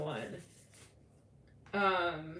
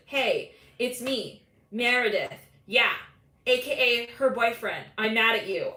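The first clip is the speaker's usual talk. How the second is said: disguised voicemail voice; 3 semitones higher, 5 dB louder than usual. Retold or imitated. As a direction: fake a cutesy disguise, then pout. Jealous boyfriend's disguised voicemail.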